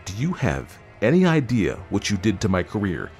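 high, aggrieved husband, slowing for scorn; angry reproach. A narrator's reading. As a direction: berate her over your ruined career. Husband angry about career.

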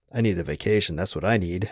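ordinary delivery

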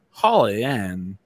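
slow, stretched-out syllables; lightly voiced, drawn-out celebrity impression; Christopher Walken. Host imitates Christopher Walken saying a co-host's name, slow and drawn out. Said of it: "take a one syllable word and make it two syllables".

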